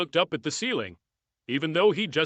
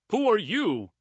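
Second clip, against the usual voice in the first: impatient roar; 6 semitones higher than usual. A narrator's reading. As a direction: bark the question, out of patience. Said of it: "Drake roared impatiently".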